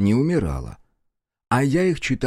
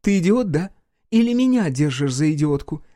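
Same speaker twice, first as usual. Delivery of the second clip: furious insult; 5 semitones higher than usual. A narrator's reading. Enraged ex-wife insults her ex-husband, furious. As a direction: hurl it at him in rage.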